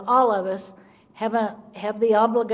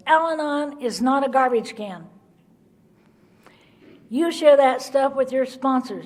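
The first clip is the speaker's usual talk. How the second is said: louder, raised and stern, laying down the law; firm scolding; 2 semitones higher, 3 dB louder than usual. Retold or imitated. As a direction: scold the room like a fed-up old-timer. Sponsor standing up scolding meeting.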